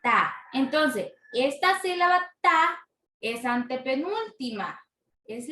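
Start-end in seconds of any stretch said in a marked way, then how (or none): 0.0-0.3 Ta as one firm, isolated, lower beat; stressed syllable. Shown as a demonstration. Teacher showing the tonic syllable, Ta said with stress. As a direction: land Ta alone with vocal force. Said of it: "porque tiene mayor fuerza de voz".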